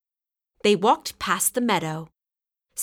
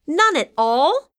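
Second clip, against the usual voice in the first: high, louder dismayed cry; cried out; 7 semitones higher, 6 dB louder than usual. A narrator's reading. Sam asking Bob about honey, dismayed high cry. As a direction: Sam cries out in dismay, voice jumping up. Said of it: "cried Sam".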